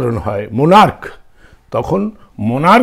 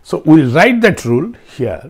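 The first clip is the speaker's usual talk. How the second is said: slow dictation; much slower than usual. Shown as a demonstration. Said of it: "slow classroom announcement".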